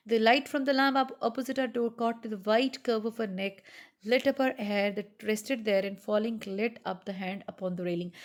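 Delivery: slow, measured literary reading; story reading. Acted. Teacher reading Araby to students, slow story narration. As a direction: read each phrase slowly to the class.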